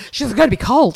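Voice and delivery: laughing mock mum.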